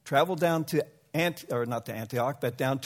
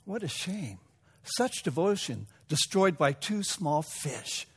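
rueful lament; 2 semitones higher than usual. Acted. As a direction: let the disappointment sink in slowly. Aristotle's sorrowful verdict.

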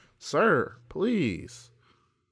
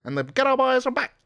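high, loud 1940s newsreel voice; old newsreel announcer; 11 semitones higher, 6 dB louder than usual. Shown as a demonstration. Host demos the accent he wants to learn, old newsreel announcer. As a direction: proclaim it like wartime newsreel narration. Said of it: "It's like that type of voice".

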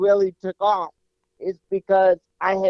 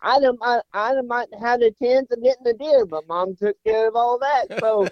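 put-on higher, whiny aggrieved child; the boy lists his grievances, pouting and higher; indignant kid complaint; 5 semitones higher than usual. Boy complains to his dad about his ruined hunt, whiny and aggrieved.

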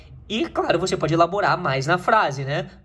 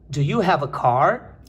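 slightly slow, connected question; slow model repeat; 3 semitones lower, slower than usual. Shown as a demonstration. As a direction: repeat it more fluently, still measured. Repete a frase modelo menos devagar. (repetição pausada e mais ligada)

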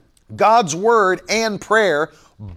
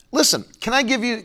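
confiding stage whisper; 4 semitones higher, faster than usual. Real, not acted. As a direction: lean in and whisper it. Confiding a suggestion to viewers.

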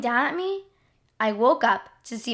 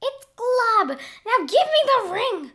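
squeaky monster voice; 11 semitones higher than usual. Acted. King Glob corrects her.

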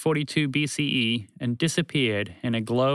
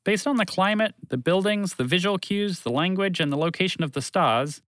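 calm announcement; 3 semitones higher than usual. A narrator's reading. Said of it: "calmly made an announcement".

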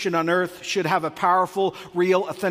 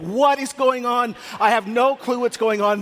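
bewildered; 5 semitones higher, 3 dB louder than usual. Retold or imitated. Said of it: "And you're like".

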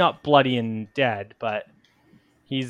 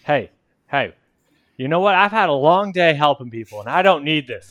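fed up; 4 dB louder than usual. Acted. Character fed up mid-quarrel.

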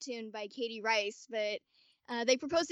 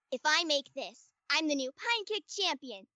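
lightly voiced scrappy kid; a hint of a spunky girl character; Seventeen voice; 3 semitones higher than usual. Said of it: "This is the line I used to get into her".

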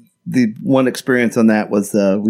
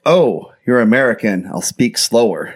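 slowed-down bartender quote. Retold or imitated. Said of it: "he's like".

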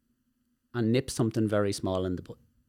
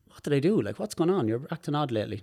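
retold high, insistent confusion; baffled questioning; 5 semitones higher than usual. Speaker asks cousin what went wrong, baffled. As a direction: replay asking what went wrong, pitched up.

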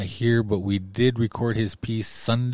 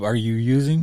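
blunt accusing question; 3 semitones higher, 5 dB louder than usual. Retold or imitated. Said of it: "Like, straight up".

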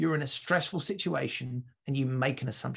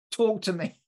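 a higher, louder retake; repeated louder; 6 semitones higher, 4 dB louder than usual. Retold or imitated. Sniper repeating his Tom Cruise line louder when not understood. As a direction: push the line harder the second time. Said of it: "I'm gonna give it again".

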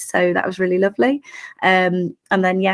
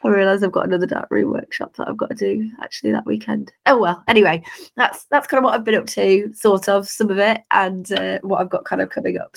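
hoarse, croaky speaking voice; 2 semitones higher than usual. Real, not acted. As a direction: talk through a croaky throat. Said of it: "apologies for the croaky voice".

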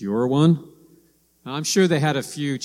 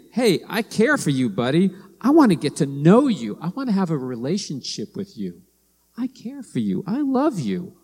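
tender caring; 4 semitones higher than usual. Retold or imitated. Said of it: "he was saying".

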